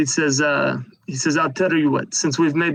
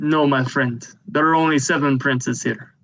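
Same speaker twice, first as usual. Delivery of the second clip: usual speaking voice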